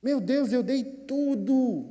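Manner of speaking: high, drawn-out mock wail; upset lament. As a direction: cry out to God, stretching the last word. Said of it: "eu fiquei mais chateado".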